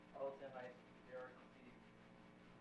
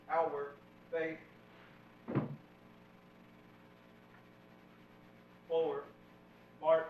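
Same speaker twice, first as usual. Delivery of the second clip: drill commands; 3 dB quieter than usual. Real, not acted. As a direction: call the commands across the hall. Cadet calls drill commands.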